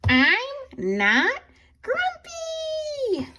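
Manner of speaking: furious drawn-out shout. A narrator's reading. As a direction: bellow it slowly, chest-beating. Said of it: "shouted Jim".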